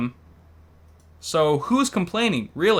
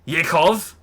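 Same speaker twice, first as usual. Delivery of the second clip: calling out; 3 semitones higher, 5 dB louder than usual. Acted. Calling out the name.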